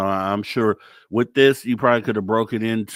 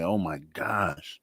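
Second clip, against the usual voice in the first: amazed; 4 semitones lower, 8 dB quieter, slower than usual. Retold or imitated. Retells amazed reaction while reading book.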